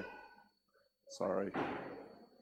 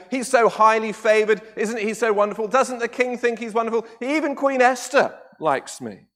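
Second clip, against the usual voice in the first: smug; 5 semitones higher, 3 dB louder than usual. Retold or imitated. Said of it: "all smug and full of himself".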